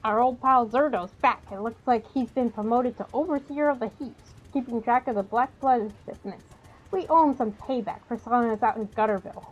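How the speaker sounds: lively, projected reading of game text; quest text read-aloud. Acted. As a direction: read the quest briefing out to viewers.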